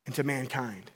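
slow, fading voice of God; a hint of God, drawn out and fading. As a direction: let it breathe out slowly as God. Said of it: "God is saying".

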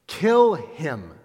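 mock crowd yell, rising; crowd shout. The crowd demanding Barabbas, half-shouted. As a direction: call it out like a mob. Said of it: "With one voice they shouted".

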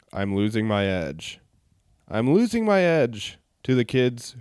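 light halting read, each phrase broken off with pauses; a hint of Kirk, chopping lyrics into dramatic bits; Will Shatner impression. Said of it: "my best, um, Will Shatner impression".

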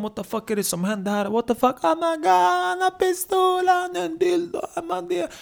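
very high squealing alarm; mock panic. Housemates see pistol and dildo, high-pitched panic. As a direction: shriek as a panicked onlooker, climbing to falsetto.

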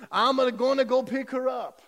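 hammed-up Italian accent; Luigi's Italian accent. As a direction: land the punchline as an old Italian husband. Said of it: "do my best Italian accent".

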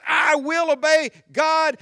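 loud, high, resolute vow; emphatic vow of obedience; bold faith. Acted. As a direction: declare it with full conviction. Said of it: "the voice that says".

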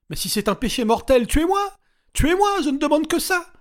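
very high, loud screaming demand; furious scream. A narrator's reading. Regina screaming at her captors to kill her. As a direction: hurl it at the unseen voice.

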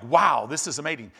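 a hint of stately angel awe; angelic leader. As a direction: say it like a majestic angel, not a surfer. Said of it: "he's an angelic leader".

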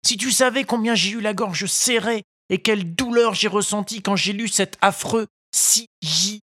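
put-on high boy's voice, slowing; sorrowful puppet boy. A narrator's reading. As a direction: Pinocchio tells the fairy his pain. Pinocchio confides his grief. (Pinocchio triste, voix aiguë)

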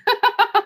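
short high burst of laughter. Real, not acted. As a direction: laugh at your own slip. Laughs at own spoiler. (risada aguda e curta)

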